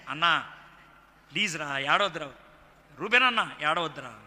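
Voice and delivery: low, tender pleading as a brother; speaking affectionately. Acted. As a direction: gently console weeping brothers. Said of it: "ప్రీతిగా మాట్లాడెను". (ప్రీతిగా, ఓదార్పుగా)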